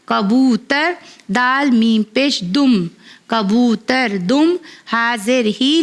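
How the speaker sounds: slow, clear letter-by-letter spelling, then blending the word; patient teacher reading a primer aloud; phonics spelling drill. Acted. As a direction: spell each syllable out for a child, then join them.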